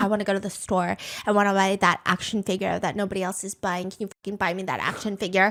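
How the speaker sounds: put-on pouty, annoyed, sulky kid voice. Acting out a sulky child asking for a toy: imitating a sulky, annoyed child. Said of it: "asking his mom in a very 삐졌어, annoyed way".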